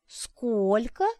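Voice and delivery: high, sharp offended question; outraged high query; indignant question. A narrator's reading. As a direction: bristle at the number. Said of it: "гневно сощурилась Арина".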